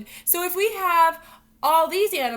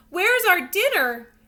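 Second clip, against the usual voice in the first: slow, higher, louder voice for the hungry cats; cats asking; 5 semitones higher, 8 dB louder, slower than usual. Acted. Teacher voicing the hungry cats in a picture book, a bit higher and louder. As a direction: ask it like a chorus of hungry cats. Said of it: "asked the cats".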